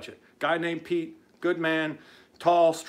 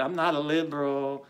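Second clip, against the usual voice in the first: mocking whine. Host mimics Wilbur denying the label, mocking whine. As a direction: mimic a whining denial. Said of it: "every word that comes out of his mouth is a whine".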